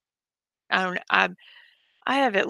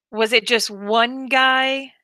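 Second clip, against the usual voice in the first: incredulous; 3 semitones higher, 6 dB louder, much slower than usual. Real, not acted. Incredulous questioning of the viewer.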